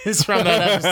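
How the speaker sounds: talking through a real laugh; giggling over a favourite Always Sunny line. Real, not acted. Laughing after Sunny quote.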